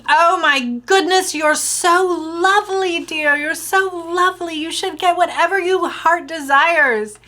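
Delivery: light mock English accent; gushing like a sweet English lady; imitating the English stranger, sweetly. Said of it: "like, from England or something".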